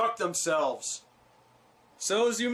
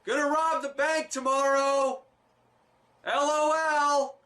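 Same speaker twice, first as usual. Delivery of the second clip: sarcastic; 8 semitones higher than usual. Pretend. Mocking the crooks' open scheming.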